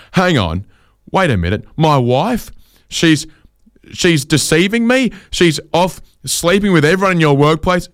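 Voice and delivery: shocked husband. Retold or imitated. Husband hearing his wife is cheating, shocked high disbelief. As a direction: panicky husband, pitch climbing with each question.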